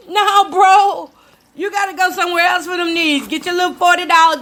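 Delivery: firm scolding. Retold or imitated. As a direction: tell him off sharply. Shutting down a pushy man.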